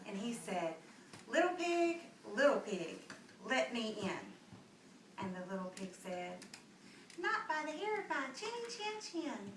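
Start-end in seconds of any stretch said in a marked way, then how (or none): 1.3-5.2 wolf calling. Acted. Big bad wolf coaxing the little pig to let him in. 7.2-9.5 high squeaky little pig voice; defiant little pig. Acted. Little pig refusing the big bad wolf, high and small.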